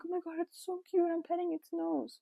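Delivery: squealing high-pitched delight; so excited. Retold or imitated. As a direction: gush like you're touching a real kitten. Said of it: "I'd get so excited".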